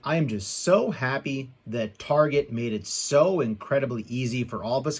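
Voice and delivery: tongue-in-cheek gushing; sarcastic. Pretend. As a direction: pretend to be so happy, laying on the sarcasm. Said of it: "I was being sarcastic in that cold opening".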